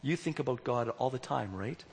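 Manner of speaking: soft, gentle question; said gently. Retold or imitated. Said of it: "And then she said gently".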